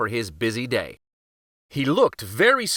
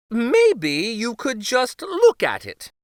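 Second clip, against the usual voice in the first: higher, slow hesitant plea; nervous king; 10 semitones higher, 4 dB louder than usual. Acted. King to the uncle, slow nervous stalling. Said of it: "said King Kenric".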